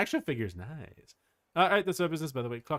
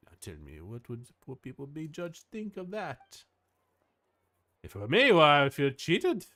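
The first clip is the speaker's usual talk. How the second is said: put-on lilting French-accented character voice; French accent, swinging pitch. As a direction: play it with a light French accent. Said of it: "Why am I doing a French accent?".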